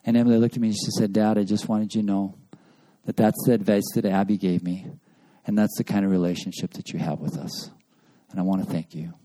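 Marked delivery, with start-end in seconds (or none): 1.1-9.1 softer, lower, sincere retelling of the daughter's thanks; a hushed, moved, grateful daughter. Retold or imitated. Father retells his daughter thanking him: soft and sincere.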